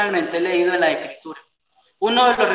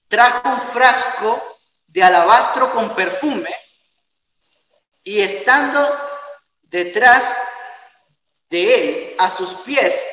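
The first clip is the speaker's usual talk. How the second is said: slow, deliberate Bible reading in phrases; scripture reading. Acted. Preacher reads the Gospel to his congregation, slow and deliberate. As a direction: read scripture aloud with weighted pauses.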